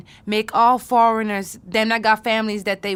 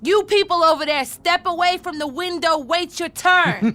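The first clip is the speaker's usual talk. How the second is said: commanding clerk voice; 6 semitones higher than usual. Shown as a demonstration. Niece practicing her front desk command, booming. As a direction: order the crowd back. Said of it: "Terrific. Wonderful. That's the attitude".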